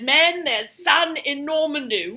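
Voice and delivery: slow mock British wartime address; a hint of an English leader rallying troops; Winston Churchill. Wartime leader addressing his men, slow British oratory. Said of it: "why Churchill won the war".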